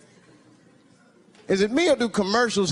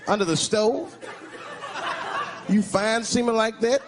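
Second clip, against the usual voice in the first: Under the stove? with a disbelieving rising tune; incredulous question; 2 semitones higher than usual. Real, not acted. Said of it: "that's what I wanna know".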